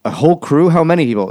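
high, loud mock disbelief; incredulous nurse. Nurse baffled at the front desk, high incredulous mock. Nurse voiced in retold scene.

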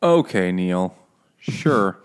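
skeptical, teasing acceptance; sarcastic disbelief. Real, not acted. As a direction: humor him without believing a word. Mocking Neil's excuse as unlikely.

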